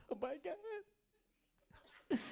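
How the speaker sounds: high, long laughing squeal; helpless laughing. Real, not acted. A comic cracking up at his own joke, laughing. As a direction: lose it laughing.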